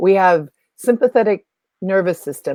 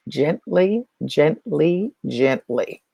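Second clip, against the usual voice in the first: gentle repetition; 4 semitones lower, much slower than usual. Shown as a demonstration. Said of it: "we need that gently".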